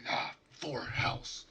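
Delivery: slow breathy whisper in character; whispered sigh. Acted. Game master voices character's muttered line.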